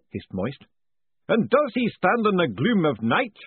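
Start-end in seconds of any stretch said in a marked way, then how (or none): 1.3-3.4 slow, booming ritual master. A narrator's reading. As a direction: boom it out like a grand master of ceremonies. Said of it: "the voice demanded".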